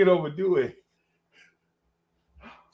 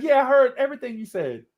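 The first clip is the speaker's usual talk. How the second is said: high defensive fib; 10 semitones higher, 4 dB louder than usual. Retold or imitated. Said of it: "He's like".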